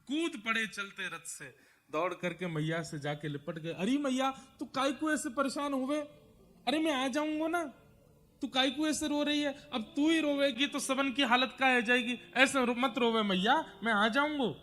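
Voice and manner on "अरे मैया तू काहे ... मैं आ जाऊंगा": put-on higher, louder child's voice, soothing his mother; a little boy begging mother not to cry; consoling child. Krishna comforts weeping Yashoda, high, louder child voice.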